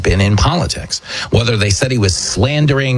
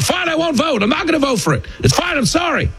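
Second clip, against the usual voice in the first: high, apologetic caving voice; cowed voter; 3 dB quieter than usual. Retold or imitated. Average person to accusers, high and apologetic. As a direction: give in like a pressured voter. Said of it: "They go".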